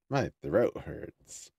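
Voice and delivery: very slow, each word set apart; slow careful repeat. Real, not acted. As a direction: correct it slowly and clearly. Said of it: "I'm slurring my voice so much lately".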